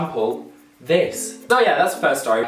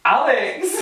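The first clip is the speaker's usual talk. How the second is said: loud higher call across the room; 12 semitones higher, 3 dB louder than usual. Real, not acted. Calling to friend Alex, a loud higher call. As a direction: shout the name to get attention.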